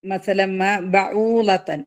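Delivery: slow recited phrase; tajweed recitation; Quran recitation. Shown as a demonstration. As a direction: chant it with the nasal merge. Recites showing idgham.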